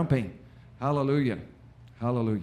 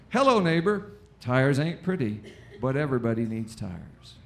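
folksy commercial voice; 3 semitones lower than usual. Retold or imitated. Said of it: "Ten minutes later".

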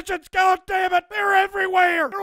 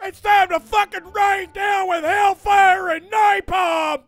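slow drill sergeant bellow; 3 dB louder, slower than usual. Acted. Sergeant rallying troops.

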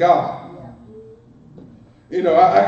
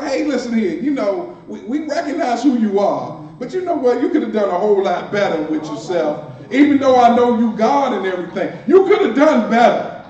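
louder, rising scolding of Jesus; sassy complaint; 3 semitones higher, 5 dB louder than usual. Retold or imitated. Sisters scolding Jesus, a loud sassy complaint. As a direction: put him in his place, half laughing. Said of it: "they felt some kind of way".

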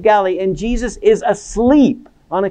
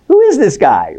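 mildly astonished, louder question; mock astonishment; 2 semitones higher, 5 dB louder than usual. Onlookers after the storm suddenly stops, mildly astonished. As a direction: ask it as a stunned onlooker, lightly acted. Acts out stunned onlookers' reaction.

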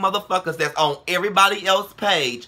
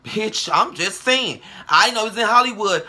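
loud retort; 6 semitones higher, 4 dB louder than usual. Real, not acted. Mock-innocent retort in rant.

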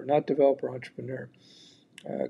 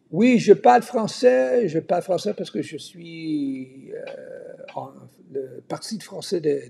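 foreign accent in French. Real, not acted. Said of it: "my French, spoken French is rusty".

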